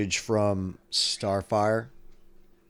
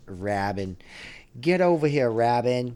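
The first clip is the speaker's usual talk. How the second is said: calling out; 2 semitones higher than usual. Pretend. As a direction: summon Robin like a scolding parent. Calling Robin in mock scene.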